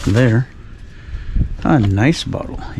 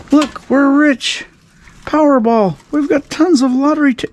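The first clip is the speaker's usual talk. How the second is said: sarcastic. Acted.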